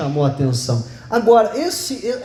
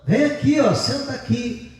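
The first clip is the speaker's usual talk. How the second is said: grandma calling; 6 semitones higher than usual. Retold or imitated. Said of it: "a avó dele disse".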